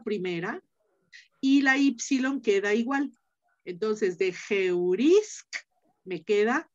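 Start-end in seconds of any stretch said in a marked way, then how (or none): 4.2-5.5 geurisk drawn out slowly with a rise; slow classroom demo of geurisk; careful slow model. Shown as a demonstration. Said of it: "teacher models Greek form slowly".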